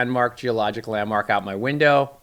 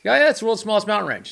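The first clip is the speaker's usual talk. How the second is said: mock academic agreement; 9 semitones higher, 3 dB louder, faster than usual. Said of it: "and we used to".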